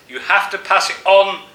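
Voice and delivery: a remembered voice echoing inside your head; echoing in the mind. A narrator's reading. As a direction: let "pass it on" ring out as a haunting echo. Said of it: "echoing in your mind".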